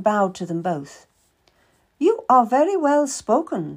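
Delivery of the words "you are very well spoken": a much higher, brisk merchant woman's voice; Madame Marchand. Acted. Madame questions the boy seeking work, higher businesslike voice. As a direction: play a shrewd, businesslike older lady.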